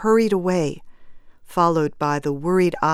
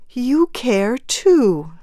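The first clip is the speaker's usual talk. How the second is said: slow, higher, tentative appeal; soft appeal; 6 semitones higher, 4 dB louder, much slower than usual. A narrator's reading. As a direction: reach out slowly to a fellow mourner. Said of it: "she said softly".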